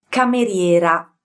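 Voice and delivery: Cameriera, rolled r, ending on a open a; Italian pronunciation. Shown as a demonstration. Teacher modelling Cameriera for learners, careful Italian. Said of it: "So let's start".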